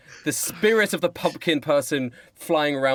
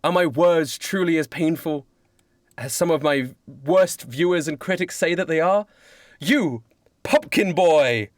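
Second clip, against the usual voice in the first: slow theatrical declaiming, slightly raised; William Shakespeare; 4 semitones higher, slower than usual. Acted. Playwright addresses the pumpkin boy, grand slow declaiming. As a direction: declaim it grandly with weighty pauses. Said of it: "William Shakespeare says".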